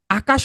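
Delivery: second আকাশ drawn out as আ, then কাশ; broken into syllables. Shown as a demonstration. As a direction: pull আকাশ apart into two slow beats. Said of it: "এভাবে ভেঙে উচ্চারণ".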